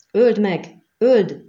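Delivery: loud, high bloodthirsty yell; bay for blood like an arena crowd; crowd shout. A narrator's reading. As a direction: spectators screaming for the kill. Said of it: "kiabálták a nézők".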